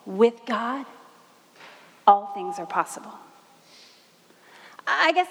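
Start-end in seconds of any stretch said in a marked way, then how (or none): 0.1-3.2 lower, solemn angel voice; angel's voice. Acted. Mary quoting the angel's promise, lower and solemn. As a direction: pronounce it like a heavenly promise, low. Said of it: "The voice said".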